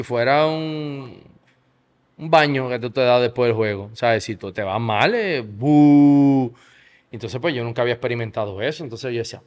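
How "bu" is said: long, loud imitated boo; crowd boo. Player imitating fans booing him, loud drawn-out boo.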